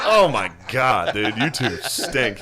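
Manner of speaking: slow, drawn-out exasperation, played for laughs; mock disgust. Host retells teasing two friends over their secret handshake, mock disgust. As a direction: drag it out in mock dismay.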